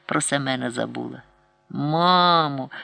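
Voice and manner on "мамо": tearful plea. A narrator's reading. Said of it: "з мукою, слізьми благає".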